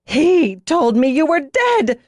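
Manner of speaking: loud, slow, high furious growl; slow, raging cry of betrayal; growling outburst. Acted. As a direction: spit it out through the anger.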